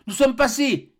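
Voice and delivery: high, loud joyful cry; triumphant shout. Acted. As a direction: announce the escape. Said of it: "cria une voix".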